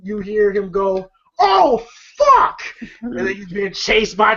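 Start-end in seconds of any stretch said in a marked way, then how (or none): 1.4-2.6 high laughing oh fuck; laughing curse. Retold or imitated. Retelling a movie scene, a laughing curse. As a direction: blurt it out through a laugh.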